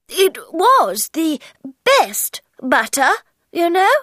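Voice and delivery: repeated sadly. Acted. March Hare sadly insisting to the Hatter, plaintive. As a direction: insist again, a bit sorry. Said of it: "he repeated".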